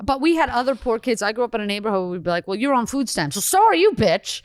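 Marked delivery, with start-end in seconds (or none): 2.5-4.4 mock taunt. Mocking a poor neighbor kid.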